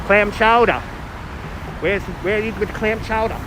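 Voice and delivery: put-on New England accent; exaggerated New England chowder accent. Shown as a demonstration. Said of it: "Can I do a New England accent".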